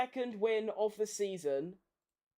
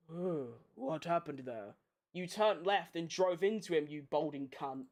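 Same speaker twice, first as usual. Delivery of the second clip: mock Sainz radio; 5 semitones lower than usual. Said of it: "He said".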